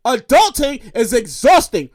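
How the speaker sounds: slow, deliberate restatement; drawn-out, emphatic complaint; weary pronouncement. Real, not acted. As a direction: spell it out slowly for emphasis.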